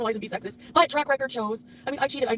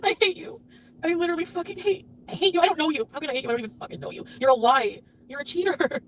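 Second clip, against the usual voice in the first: 1 tearful angry outburst. Real, not acted. Breaking down over betrayal.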